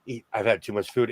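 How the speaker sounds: words through a yawn. Real, not acted. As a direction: talk mid-yawn, sleepy and full. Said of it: "I'm yawning".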